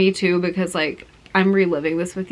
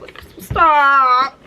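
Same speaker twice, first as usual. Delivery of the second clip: higher, louder gushing cry; excited squeal; 6 semitones higher, 5 dB louder than usual. Real, not acted. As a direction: squeal it out, overwhelmed. Overwhelmed by gift.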